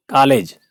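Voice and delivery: कॉलेज with a rounded first vowel, like "kolej"; कॉलेज mispronounced as "ko-lej"; closed o mistake. Shown as a demonstration. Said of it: "कॉलेज नहीं".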